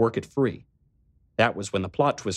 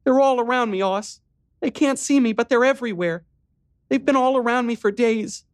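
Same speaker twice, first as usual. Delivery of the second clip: high, louder, terrified pleading; breaking down; 4 dB louder than usual. Acted. Riley breaking down to her brother, terrified. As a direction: fall apart again in fear. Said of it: "she broke down again at once".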